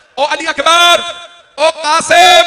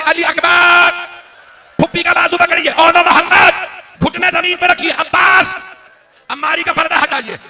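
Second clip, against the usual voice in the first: much higher and louder, drawn-out preaching cry; impassioned calling out; 10 semitones higher, 8 dB louder than usual. Acted. Preacher voicing the imam calling to family, full-force wail. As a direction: call out the commands at full force.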